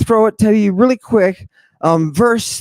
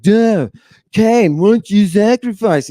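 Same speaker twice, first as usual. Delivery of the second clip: mock-naive needling voice, pitched up; Abel; 4 semitones higher than usual. Abel asks Cain to sacrifice, mock-naive. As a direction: put on a higher, simple-minded brother voice.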